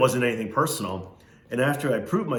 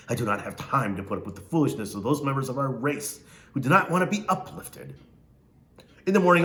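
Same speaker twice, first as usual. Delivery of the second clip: Missus Amos. Acted. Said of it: "She talked like this".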